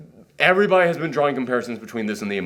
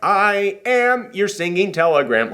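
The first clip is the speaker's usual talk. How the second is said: slightly hammed-up little herald, slow and raised; little messenger guy; 4 semitones higher, slower than usual. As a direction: lightly imitate a tiny telegram boy, drawn out. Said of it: "like that little guy".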